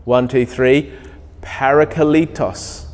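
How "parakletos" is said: Parakletos said slowly and evenly as PA-ra-kle-tos; Greek word said slowly. Shown as a demonstration. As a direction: lead the room through Parakletos one syllable at a time. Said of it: "have a go at saying it".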